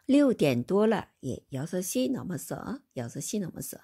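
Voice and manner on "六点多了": 六点多了 said very slowly and a bit louder; slow model Chinese. Shown as a demonstration. Teacher modelling line for repetition, slow and clear. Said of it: "다시 한번 읽어봅니다".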